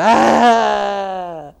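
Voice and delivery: loud, high imitated child's cry; boy bursting into tears on stage; child's wail. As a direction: let out a loud crying wail. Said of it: "el niño se suelta llorando".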